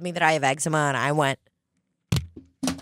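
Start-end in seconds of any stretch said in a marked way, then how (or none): 2.6-2.7 hammed-up, long drawn-out "nooo"; mock-tragic wail, swelling as it goes; so dramatic. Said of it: "That is so dramatic".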